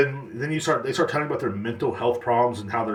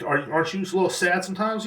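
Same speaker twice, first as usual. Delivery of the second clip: raised pitch, lightly mocking; mock high question; 7 semitones higher than usual. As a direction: tease it up high like a fake concerned friend. Mock dialogue about being sad.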